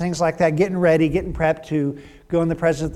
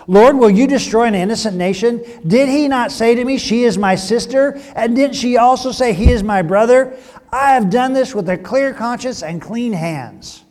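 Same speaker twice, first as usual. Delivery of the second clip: higher, louder, a king protesting his innocence to God; pleading king; 6 semitones higher, 5 dB louder than usual. Acted. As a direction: read it as Abimelech begging the Lord, raised and earnest.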